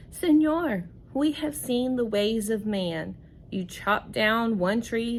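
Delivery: a touch of urgent monkey narration; reading to children. Acted. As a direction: warn the man as the monkey, read aloud. Teacher reads monkey's warning.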